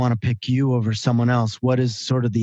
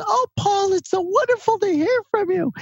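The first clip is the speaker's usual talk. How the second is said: put-on much higher little-old-lady voice, delighted; grandmother on the phone. Grandson calls his hundred-year-old grandmother, much higher old-lady voice. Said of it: "She goes".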